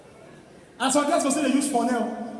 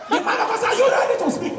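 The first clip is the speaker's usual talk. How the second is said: pastor impression; 9 semitones higher, faster than usual. Imitating the pastor.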